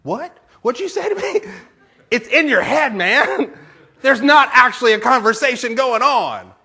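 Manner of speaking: high, loud comic indignation; hammed-up outraged squawk; all worked up. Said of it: "I'm getting all worked up".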